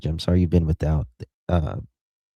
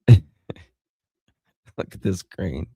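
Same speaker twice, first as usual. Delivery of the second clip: laughing; 2 semitones higher, 3 dB louder, much slower than usual. Real, not acted. Laughing at a crane picture.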